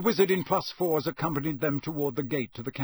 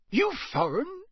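high, rising "You foreign?" in the owner's rustic voice; suspicious countryman; 12 semitones higher than usual. Acted. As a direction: probe him with suspicion. Campsite owner voiced by narrator.

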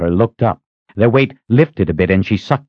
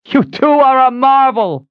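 high, projected admiring call; shouted praise; 4 dB louder than usual. A narrator's reading. Rider praising her two rescuers, shouted praise. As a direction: call it out over the hooves.

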